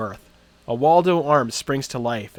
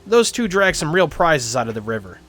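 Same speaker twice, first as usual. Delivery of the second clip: sceptical gatekeeper; 3 semitones higher, 5 dB louder than usual. Acted.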